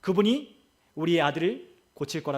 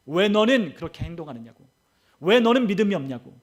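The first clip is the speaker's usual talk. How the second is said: imitated rebuke swelling to a loud peak; retold scolding; 5 dB louder than usual. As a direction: hammer out accusing questions as the Lord's reproach. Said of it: "주님이 우리에게 꾸짖는 거예요".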